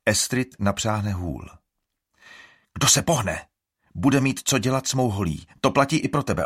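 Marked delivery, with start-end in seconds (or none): 2.7-6.4 threat. Acted. Threatening with her staff.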